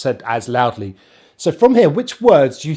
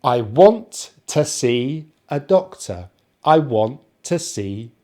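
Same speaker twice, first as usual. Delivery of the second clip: "I want to see" stressing want and see; weak "to", strong "want" and "see"; sentence stress; slower than usual. Shown as a demonstration. Teacher modelling the whole sentence, stressed key words. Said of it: "putting the stress on the want".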